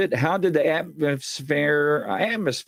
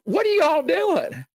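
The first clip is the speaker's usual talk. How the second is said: high, slow, grumpy little creature voice; a tiny annoyed gnome scolding intruders; pissed-off gnome. Retold or imitated. Little gnome poking out of the wall at the boys, high grumpy scolding. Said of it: "pissed off".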